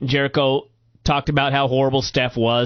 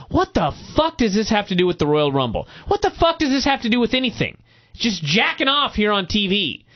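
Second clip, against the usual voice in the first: exasperated rant, pitch jumping higher; 5 semitones higher than usual. Retold or imitated. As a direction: vent in disbelief at what you're watching. Acted exasperated reaction to the show.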